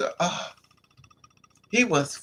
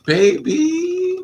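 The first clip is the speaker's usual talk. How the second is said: loud high exclamation; 12 semitones higher, 6 dB louder than usual. Real, not acted. She cries out baby while telling of her night. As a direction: belt the word out high.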